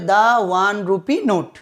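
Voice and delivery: "the" pronounced "daa" before "one". Shown as a demonstration. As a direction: say "the" with an open aa. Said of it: "দা উচ্চারণ করা হচ্ছে". ("the"-কে "দা" উচ্চারণ)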